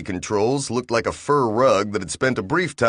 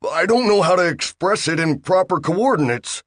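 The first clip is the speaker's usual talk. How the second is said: flustered Bill; 9 semitones higher than usual. Acted.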